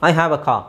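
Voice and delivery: "car" ending in a long open vowel, no R sound; silent R. Shown as a demonstration. Teacher showing students car without R, silent R. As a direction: say "car" as "kaa", dropping the R. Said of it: "ನಾನು ಆರ್ ಹೇಳಲಿಲ್ಲ ಇಲ್ಲಿ".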